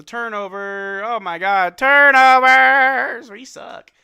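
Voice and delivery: drawn-out anguished shout; a fan groaning out loud at a turnover; frustrated yell. Real, not acted. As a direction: stretch the word out in loud despair. Streamer reacts to turnover.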